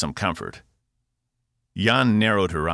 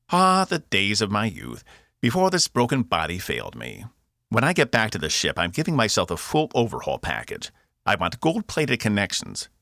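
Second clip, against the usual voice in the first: theatrical Cockney robot, pitched up in bursts; Cockney robot, self-pitying then grandiose; 4 semitones higher than usual. Acted. Box demands an overhaul from Cass, grandiose Cockney. Box's held Cockney character voice.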